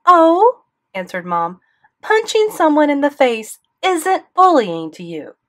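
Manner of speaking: mother outraged at the principal, loud and high; indignant outrage. A narrator's reading. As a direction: throw it back in his face. Mom fires back at principal.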